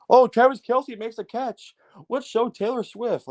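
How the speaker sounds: sarcastic, high, slow sportscaster parody; mock broadcaster. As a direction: ham up a gushing TV broadcaster, slowly. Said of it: "the broadcasters care more about".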